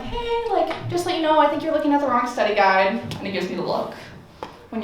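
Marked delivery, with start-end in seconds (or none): 0.0-3.0 high, bright helpful tip; mock-helpful girl voice to classmate. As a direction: lean in eager to help. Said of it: "I'm like".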